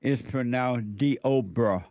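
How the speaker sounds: Deobra said slowly as dee-OH-bra; careful pronunciation. Shown as a demonstration. Host telling listeners the producer's pronunciation, slowly. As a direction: spell out Deobra slowly with stress on OH. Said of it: "I'm told by Derek".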